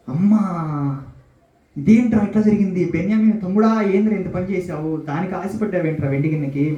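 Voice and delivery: put-on horrified older brothers rounding on the youngest brother; panicked brothers. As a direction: cry out in alarm at the youngest brother. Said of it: "భయపడిపోతున్నారు".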